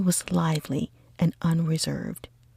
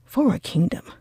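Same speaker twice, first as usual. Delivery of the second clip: put-on lively young gentleman, louder and brighter; eager, cheerful cry; 3 semitones higher, 4 dB louder, faster than usual. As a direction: gush about the pretty girls. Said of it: "cried Bingley".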